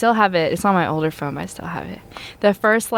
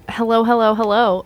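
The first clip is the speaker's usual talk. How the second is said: voicemail greeting; 3 semitones higher, 3 dB louder than usual. Retold or imitated. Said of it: "I, I say".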